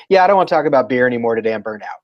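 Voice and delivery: fast, lazy hipster complaint; mock burned-out beer guy. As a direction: rattle it off like a bored brewer. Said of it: "do you think they just go".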